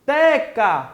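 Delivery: "Peteca" pulled apart into syllables. Shown as a demonstration. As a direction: separate the syllables of "Peteca", leaning on te. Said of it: "Fazendo a separação silábica". ("Peteca" separado em sílabas, com o "te" mais forte)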